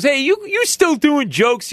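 put-on high, slow drunken call; hammed-up drunk heckler; mock drunk. Drunk addresses comic.

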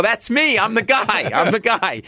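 high-pitched, insistent retold confession; eager owning up. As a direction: butt in high and urgent, settling slightly with each repeat.

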